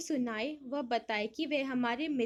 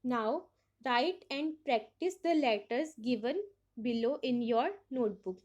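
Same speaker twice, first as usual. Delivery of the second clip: slow reading; much slower than usual. Acted. Reads book instructions aloud.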